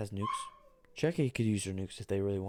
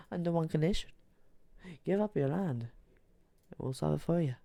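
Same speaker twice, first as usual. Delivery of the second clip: Morocco voice; 5 semitones higher than usual. Acted. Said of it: "And Morocco's like".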